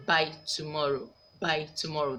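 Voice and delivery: "by tomorrow" said twice, "by" hit firmly and the phrase falling; stress on the adverb. Shown as a demonstration. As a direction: drill the phrase "by tomorrow" with weight on "by". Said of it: "That's the adverb in there".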